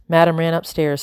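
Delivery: usual speaking voice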